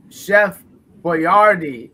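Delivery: put-on "Boyardee" with the stress on YAR, boy-YAR-dee; actual pronunciation. Shown as a demonstration. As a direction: hit the middle of "Boyardee". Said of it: "is how he actually pronounced it".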